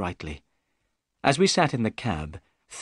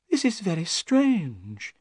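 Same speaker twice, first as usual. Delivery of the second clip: nervously; 9 semitones higher, slower than usual. Acted. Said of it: "Thaddeus Sholto said nervously".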